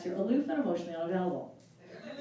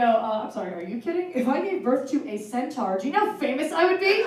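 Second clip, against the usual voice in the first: excited reply; 3 semitones higher, 4 dB louder than usual. Retold or imitated. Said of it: "And I go".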